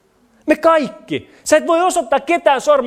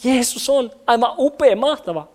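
acted lukewarm admiration; unimpressed praise. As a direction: praise it as if it hardly matters. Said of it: "Eikö se vähän oo silleen?".

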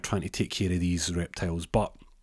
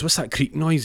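puzzled; 8 semitones higher, 5 dB louder than usual. Retold or imitated. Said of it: "And he goes".

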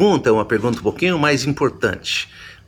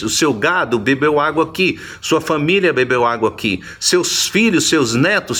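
building insistence; 4 semitones higher than usual. Retold or imitated. Preacher voicing the Samaritan woman.

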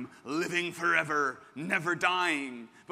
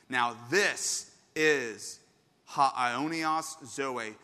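slow reading; 3 semitones lower, 4 dB louder, much slower than usual. Retold or imitated. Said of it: "look what he says".

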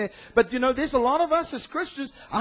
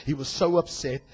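mocking misquote of scripture; 6 dB louder than usual. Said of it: "shouldn't John three sixteen say".

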